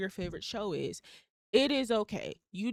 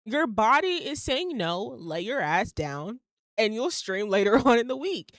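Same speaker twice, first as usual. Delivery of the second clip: higher, louder, stern telling-off of herself; tough-love pep talk to herself, higher and louder; scolding self-talk; 3 semitones higher, 6 dB louder than usual. Retold or imitated. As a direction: snap yourself out of it like a bossy best friend. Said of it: "I'm talking to myself in my head like".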